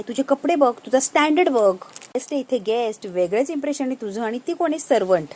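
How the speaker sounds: mildly irritated, emphatic retelling; lightly acted scornful telling-off; irritated scolding. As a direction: scold her with a touch of annoyance. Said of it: "ती चिडते त्या दोघींवर आणि म्हणते".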